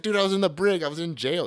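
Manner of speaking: high, loud retold protest; worked-up. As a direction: imitate a wasted friend loudly explaining himself. Graham's excited excuse, retold.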